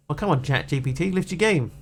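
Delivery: throaty voice, clearing throat; sore throat. Real, not acted. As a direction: talk through a sore throat. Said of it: "Sorry about my, um, throat today".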